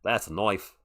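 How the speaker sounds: lightly put-on Australian accent; Crocodile Dundee. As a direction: play the Aussie bushman with broad vowels. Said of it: "I'm gonna Crocodile Dundee".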